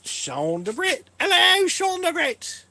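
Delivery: drawn-out mock English accent leaping very high and loud; hammed-up English greeting, slow, rising to a high loud call; Sean DeBritt accent. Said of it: "I could do an accent like Sean DeBritt".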